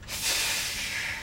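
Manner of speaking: weary sigh. Pretend. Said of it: "It's like they're saying".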